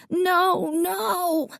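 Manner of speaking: put-on a high, drawn-out child's wail; mild wail of a little boy. A narrator's reading. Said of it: "Davy wailed".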